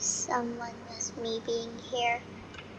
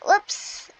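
sudden high startled yelp; surprised; 6 semitones higher, 7 dB louder than usual. Real, not acted. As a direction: caught off guard, blurt it. Hits something in water.

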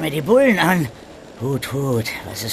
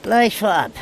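mocking greeting; 9 semitones higher, 4 dB louder, slower than usual.

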